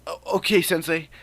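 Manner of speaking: high, stammered okay; nervous reply. Acted. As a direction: answer meekly, thrown off. Students answer the shouting teacher.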